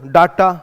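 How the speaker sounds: डाटा with open a, "daa-ta"; Indian pronunciation. Shown as a demonstration. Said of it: "इसको आप क्या पढ़ते हो". (हिंदुस्तानी उच्चारण डाटा)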